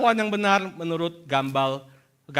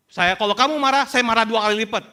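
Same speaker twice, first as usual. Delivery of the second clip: louder, higher mock-stern father; acted angry threat; 4 semitones higher, 6 dB louder than usual. Father warning his angry youngest child, loud acted threat.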